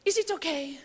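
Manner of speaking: soft, gentle impression of a diva singer; imitating a singer softly. To the whole audience, a soft gentle diva ask. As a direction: coo it like the diva settling in. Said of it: "she goes like this".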